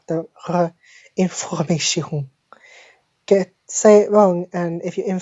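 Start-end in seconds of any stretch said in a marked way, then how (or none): 0.1-2.3 "R" from the throat, then "information" with that R and nasal "on"; French R. Shown as a demonstration. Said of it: "pay attention to the R".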